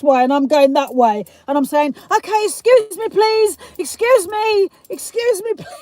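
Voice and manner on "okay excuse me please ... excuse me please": high-pitched re-enacted excuse-mes; comic high call, breaking into laughter; mock urgent pleading. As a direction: squeeze past a queue, hammed up. Re-enacting pushing past the queue.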